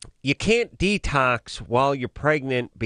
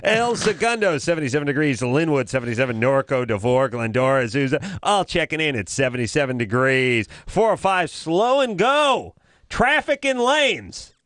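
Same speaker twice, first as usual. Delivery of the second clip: radio announcer; 2 semitones higher than usual. Pretend. Mock radio weather and traffic read.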